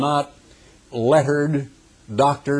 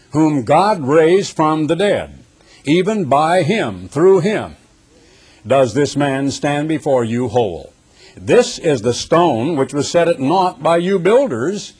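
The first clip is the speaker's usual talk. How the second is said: forceful, measured Bible reading; preacher reading Scripture aloud; emphatic Scripture reading; 3 semitones higher than usual. Acted. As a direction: proclaim the verse to a congregation.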